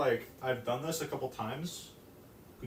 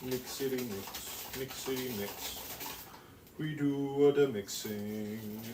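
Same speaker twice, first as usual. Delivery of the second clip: slow, drawn-out singsong mixing voice; odd playful voice; slower than usual. Pretend. Baker narrates mixing to chat, odd playful voice. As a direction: stretch the words out playfully. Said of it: "I don't know what I'm doing with my voice".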